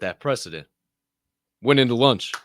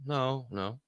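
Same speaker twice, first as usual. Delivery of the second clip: Mom demurring; 3 semitones higher, 8 dB quieter than usual. Retold or imitated. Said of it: "And Mom kinda goes".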